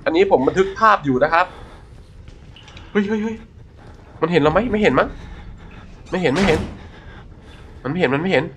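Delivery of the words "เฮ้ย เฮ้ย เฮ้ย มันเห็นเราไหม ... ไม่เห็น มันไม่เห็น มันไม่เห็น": nervous. Real, not acted. Checking if enemy saw him.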